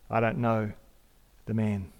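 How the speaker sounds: denying Peter. Retold or imitated. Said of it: "he said".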